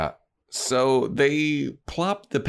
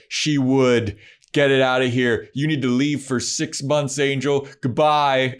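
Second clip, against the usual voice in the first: mock stern command; 4 semitones higher, 4 dB louder than usual. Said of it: "she's like".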